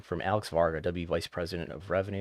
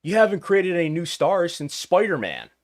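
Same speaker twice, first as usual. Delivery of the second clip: mock yell; 10 semitones higher, 8 dB louder than usual. Angry fan yelling at Marvel, mock shout. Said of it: "nobody's yelling at Marvel being like".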